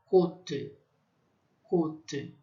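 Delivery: côte with a closed o; French côte. Shown as a demonstration. Teacher drilling closed o in côte. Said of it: "O O fechado".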